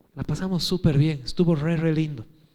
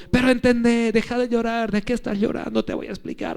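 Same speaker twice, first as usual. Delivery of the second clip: lecturing dad; 6 semitones higher than usual. Retold or imitated. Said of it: "como buen papá adulto".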